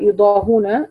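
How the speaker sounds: "يضاهون" slowly as yudaahuuna, u straight after the ha; hamza dropped. Shown as a demonstration. Teacher shows the reading, "يضاهون" with damma on ha. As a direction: recite "يضاهون" without any glottal stop. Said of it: "بحذف الهمزة".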